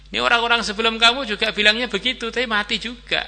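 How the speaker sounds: high, hurried warning; villagers' warning. Acted. Villagers tell the sheikh his plan failed before, urgent high warning.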